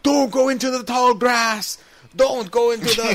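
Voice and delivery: high-pitched mock movie scream; imitated scream. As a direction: scream a panicked warning like a film extra. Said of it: "some guy screams out".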